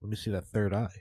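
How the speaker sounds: low, soft sleazy come-on; lightly voiced smooth flirt. Friend voiced hitting on someone.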